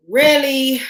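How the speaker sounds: really punched high and loud; stress on really. Real, not acted. Stressing to the viewers that she wants to talk: really. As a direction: hit really hard, way up. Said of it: "emphatic repetition".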